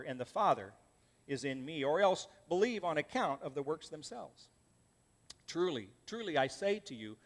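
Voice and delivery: measured, solemn Bible reading; scripture reading. Acted. Pastor reading Jesus' words to the congregation, solemn reading. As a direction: read the words of Jesus with weight. Preacher reads John 14 aloud.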